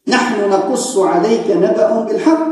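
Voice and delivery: quoting scripture in a sermon, lightly intoned; Quran recitation. Acted. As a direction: recite the verse in a lightly chanted cadence.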